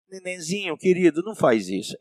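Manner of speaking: put-on soft, sweet baby-talk to a toddler; hushed mock-tender pleading; gentle coaxing, mock. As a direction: coo it softly, as if gently correcting a baby. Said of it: "É assim que você fala?".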